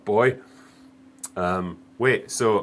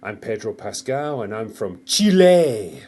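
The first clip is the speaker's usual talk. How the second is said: slow, mock Spanish accent on the name; 4 dB louder, slower than usual. Mocking the actor's introduction, slow Spanish accent. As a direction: lightly put on a Chilean accent. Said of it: "it's like when he says".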